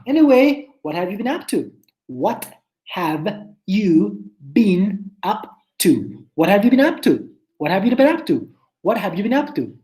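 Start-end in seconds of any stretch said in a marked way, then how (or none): 2.1-6.3 slow model take. Shown as a demonstration. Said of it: "por más rápido que lo digan".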